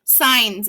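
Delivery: "Signs" with a long I and no G sound; teacher models "Signs" for students, no G heard; silent G in signs. Shown as a demonstration. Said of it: "Do you hear that?".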